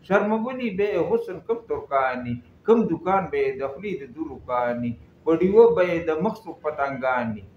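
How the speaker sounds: measured, cadenced verse reading; poem recitation. Acted. Reciting Hamid Baba's verse for listeners, poem recitation. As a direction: recite the couplets with rhythmic line endings.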